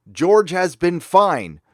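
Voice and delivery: slow, pointed "George has been fine", weight on George; repeating the quote. Retold or imitated. Host repeating Iger's line to show it says nothing, slow and pointed. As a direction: let the non-answer hang, slow and pointed. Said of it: "And then he said".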